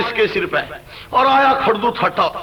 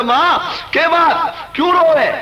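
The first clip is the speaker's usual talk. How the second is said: acted concern, pitched higher and slow; loving son; 4 semitones higher than usual. Eldest son asks his crying mother, lovingly. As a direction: ask tenderly, stretching the words out. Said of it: "बड़े प्यार से बोला".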